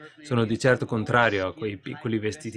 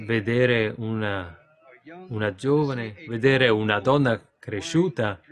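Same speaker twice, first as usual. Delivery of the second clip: slow, halting read-out; reading a letter aloud; slower than usual. Acted. Preacher reading a question to the congregation, slow letter reading. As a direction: read it out slowly with long pauses between phrases.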